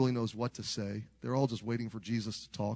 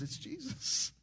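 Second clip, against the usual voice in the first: excited call; 13 semitones higher, 6 dB quieter, slower than usual. Retold or imitated. Disciple calls out from boat.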